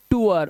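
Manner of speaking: टूअर as "too-er"; "oo-a" sound. Shown as a demonstration. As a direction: model टूअर with an oo glide. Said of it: "उ की आवाज आ गई".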